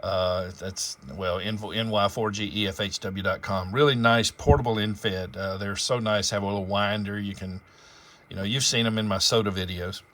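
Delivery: ordinary delivery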